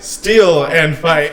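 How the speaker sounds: laughing. Real, not acted. Summing up with laughter.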